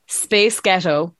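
put-on "Space Ghetto" said slowly to sound like a pop group's name; Scottish-sounding vowels. Shown as a demonstration. Coach showing an accent trick, "Space Ghetto" slowly as a pop group's name. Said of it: "it sounds like a pop group".

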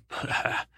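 short, breathy mock laugh; scoffing laugh. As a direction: puff out a derisive laugh. Merman scoffs at the boy's question.

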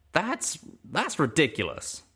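Calamity's voice, scoffing. Acted. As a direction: brush it off in the cowpoke voice.

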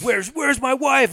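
worried husband impression. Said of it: "And he's like".

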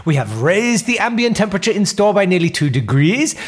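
executive meeting in a put-on Swedish accent; comic Swedish boardroom voice, rising pitch. Mister Carlson pitching strategy in a Swedish accent. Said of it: "do a funny foreign accent".

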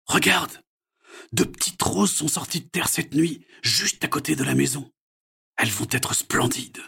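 father marvels at the roses; amazed dad. A narrator's reading. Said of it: "lui dit son père émerveillé". (papa émerveillé, voix haute)

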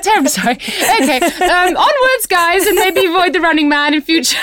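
high, prim English nanny voice; Mary Poppins voice. Retold or imitated. Mother apologises to Americans in a high prim Mary Poppins voice. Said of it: "do my best Mary Poppins voice".

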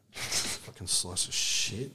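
a loose nod to Jack Black, drawn out; American Jack Black line. Retold or imitated. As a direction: drag it out like a movie tough guy. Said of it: "I stole it from Jack Black".

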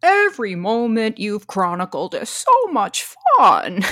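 loud, gushing mock Kathy voice; slipping into Kathy. Recapping Leslie's words, lapsing into Kathy's voice. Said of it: "you're slipping into Kathy".

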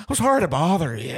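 put-on movie-star voice; mock actor impersonation; Nicolas Cage impression. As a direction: imitate the bar guy apologizing. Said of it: "sounds like Nicolas Cage".

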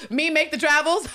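high, loud, hammed-up laughing fit; mock guffawing. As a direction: laugh uproariously around the words. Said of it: "he literally laughs up the fact".

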